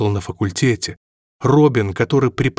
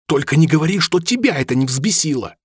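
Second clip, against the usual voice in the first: higher, sharp retort; snapping back; 6 semitones higher than usual. A narrator's reading. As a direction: bite back at her, irritated. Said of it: "огрызнулся на неё Рами".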